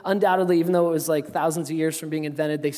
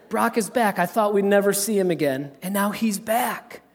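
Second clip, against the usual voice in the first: joyful father; 4 semitones higher than usual. Retold or imitated. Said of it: "He said".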